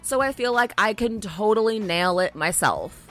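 high, breezy voice of a naive tourist; mock naive tourist. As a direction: play a carefree tourist. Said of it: "to think that you can".

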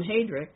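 Heydrich said as HAY-drick; first syllable of Heydrich like "hay"; mistaken pronunciation. Shown as a demonstration. Admitting a habit of miscalling him, Heydrich as HAY-drick. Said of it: "always wanted to call him".

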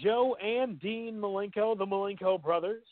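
light ring-announcer build. Pretend. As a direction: call the names like a ring announcer. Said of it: "I got that announcer voice working".

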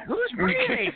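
high startled yell; startled shout. Retold or imitated. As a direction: call out, startled. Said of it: "people would hear me breathing heavy".

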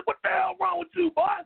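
high, angry retold scolding; mock yell at a man without a mask. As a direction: chew him out about the mask. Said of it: "I said".

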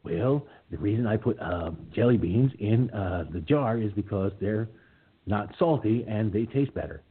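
lightly voiced Jimmy Carter, folksy and easygoing; mild, good-natured Carter send-up; Jimmy Carter impression. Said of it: "Oh, and I can do Carter, too".

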